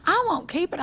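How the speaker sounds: put-on high, earnest elderly voice; old lady voice. Retelling the old lady's promise, pitched high. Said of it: "She goes".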